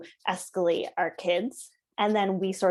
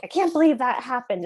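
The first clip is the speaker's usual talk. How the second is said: gossipy friend voice; 4 semitones higher, 6 dB louder than usual. Shown as a demonstration. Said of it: "talking to our friends and being like".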